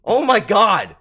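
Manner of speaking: loud flustered exclamation; real embarrassed loud cry; embarrassed yelling. Real, not acted. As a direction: blurt it out, mortified. Embarrassed outburst continues.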